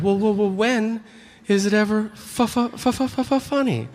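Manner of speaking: high, stuttering mock objection; stammering doubter. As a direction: stutter over the word as an incredulous heckler. Mocks a doubting audience member stammering.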